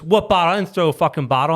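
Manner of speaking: put-on high, indignant teen snapping back, fast; mock a mouthy teenager; bratty kid attitude. Imitating the mouthy kid who threw the bottle. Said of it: "The kid gets an attitude with me and goes".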